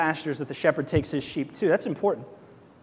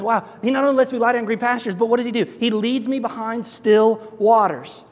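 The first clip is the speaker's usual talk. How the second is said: excited reading; 5 semitones higher, 4 dB louder than usual. Pretend. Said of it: "The next part says".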